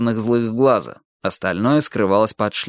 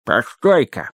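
slurred footballer with a mouthguard in; mumbling through mouthguard; slower than usual. A narrator's reading. Footballer interrupts his mate, mumbling through a mouthguard. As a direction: mumble as if your mouth is stuffed. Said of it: "прошамкал он".

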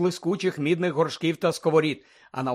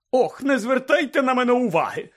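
high, indignant call; irritated shout; 8 semitones higher, 4 dB louder than usual. A narrator's reading. Portrait calling after the departing children, irritated shout. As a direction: call after them, thoroughly put out. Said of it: "роздратовано крикнула їм вслід".

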